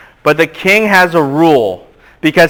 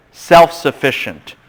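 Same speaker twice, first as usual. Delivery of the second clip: slow dictation; slower than usual. Shown as a demonstration. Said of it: "just write this down".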